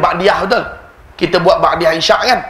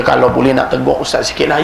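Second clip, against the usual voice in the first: put-on Kedah accent; 4 semitones lower than usual. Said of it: "Saya ajuk orang Kedah".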